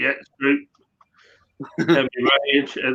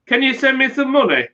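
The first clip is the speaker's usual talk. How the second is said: lightly voiced wife asking for money, a bit higher; imitating wife; 5 semitones higher than usual. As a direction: mimic her pleading for cash. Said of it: "She rang me".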